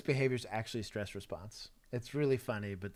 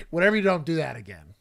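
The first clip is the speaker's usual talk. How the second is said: quoting the suspect; 6 semitones higher, 9 dB louder than usual. Retold or imitated. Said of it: "He's like".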